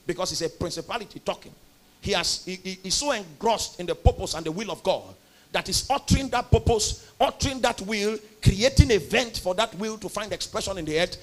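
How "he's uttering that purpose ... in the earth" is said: louder, higher, driving sermon delivery; preacher swelling with conviction; rising preaching. Real, not acted. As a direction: build the point with growing fervour.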